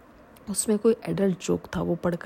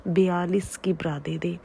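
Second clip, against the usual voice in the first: raised voice calling across the shop; calling out to staff; 4 dB louder than usual. Acted. Shopkeeper calling his assistant across the shop, raised voice. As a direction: call the assistant over from the counter. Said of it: "आवाज़ लगाते हुए कहा".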